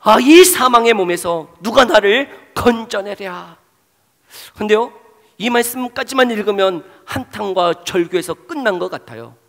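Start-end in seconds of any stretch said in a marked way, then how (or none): 0.0-3.6 slow, loud cry of despair; anguished cry. Acted. Preacher voicing Paul, crying out in slow loud anguish. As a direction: wail it out slowly like a man begging rescue. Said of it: "절규하고 있어요".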